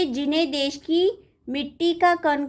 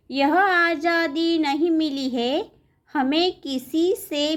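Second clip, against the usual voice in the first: poem recitation. Acted. Teacher reading a patriotic poem to pupils, measured recitation. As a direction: recite line by line, pausing after each phrase. Recites the poem's fourth verse.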